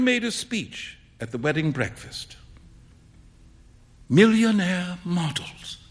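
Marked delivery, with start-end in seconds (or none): 4.1-5.8 slow, wry remark. A narrator's reading. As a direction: savour the witticism slowly. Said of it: "remarked Alan".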